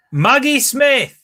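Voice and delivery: normal talking voice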